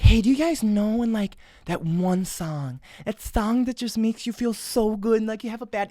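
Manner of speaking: imitating a sweet little girl, softly; gentle, softened mock-sweet delivery. Girl asks viewers about a song, imitated soft sweet voice. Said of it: "this soft, sweet little, like, voice".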